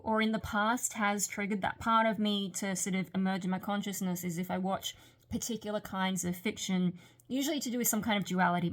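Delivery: words slurred around a dental retainer; talking with a retainer. Real, not acted. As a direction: speak around a retainer in your mouth. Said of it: "it's hard to talk in my retainer".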